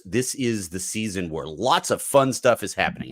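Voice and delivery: dry, mock-cheerful "fun"; sarcastic. Real, not acted. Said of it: "I'm using that in complete sarcasm".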